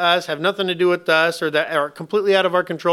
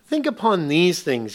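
firm command; 3 semitones higher, 3 dB louder, slower than usual. Retold or imitated. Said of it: "That's why God said".

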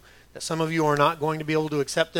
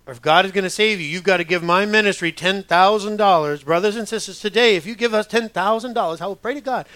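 mock southern accent; 3 semitones higher, 5 dB louder than usual. Money-hungry TV preacher asking congregation, in mock Southern accent. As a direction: lay on a Southern televangelist accent to mock him. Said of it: "Why do they always have a southern accent?".

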